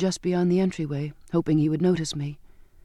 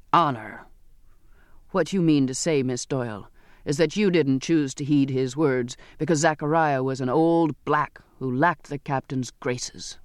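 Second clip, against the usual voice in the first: a hint of a gruff seaman's contempt; bitter sailor; 2 semitones lower than usual. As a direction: rebuke her with bitter scorn.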